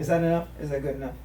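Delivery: Donald Duck voice. Acted. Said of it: "roast ... in the Donald Duck voice".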